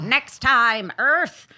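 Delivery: alien voice. Pretend. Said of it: "And they're like".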